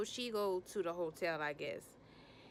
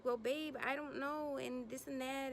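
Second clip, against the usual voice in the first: put-on higher-pitched helpless girlfriend; mock helpless girlfriend; 6 semitones higher than usual. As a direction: imitate a girlfriend with no idea. Girlfriend voiced, unsure in car.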